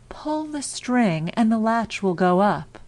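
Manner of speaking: a wolf doing his gentlest grandmother; wolf trying to sound like grandmother; softened wolf voice. Acted. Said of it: "softened his voice as much as he could".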